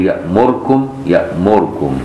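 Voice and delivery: يأمركم recited slowly, the mim vowel shortened. Shown as a demonstration. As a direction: demonstrate the reader's يأمركم. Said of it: "يبقى يقول". (نطق يأمركم)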